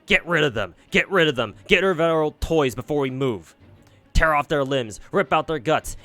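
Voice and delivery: loud, gleeful fairy commands; gleeful yelling. Acted. Fairy urging the others to kill, gleeful shouts. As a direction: shout the orders with savage delight.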